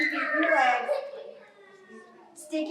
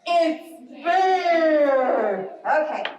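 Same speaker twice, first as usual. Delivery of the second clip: louder wailing rabbit alarm; mock frightened cry; 4 dB louder, much slower than usual. Shown as a demonstration. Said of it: "Can you guys say".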